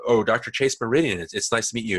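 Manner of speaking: light, casual civilian voice, imitated; everyday Bruce Wayne, before the disguise. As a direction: lightly imitate an easygoing introduction. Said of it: "this is his Bruce Wayne voice".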